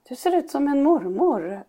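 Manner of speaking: lightly voiced earnest boy; a hint of a child stating the obvious; imitating son. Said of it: "så säger han igen så här".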